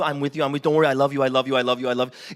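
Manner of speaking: low, droning, repetitive mock comfort; mock reassurance. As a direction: drone the reassurance like a broken record. Mocking constant reassurance.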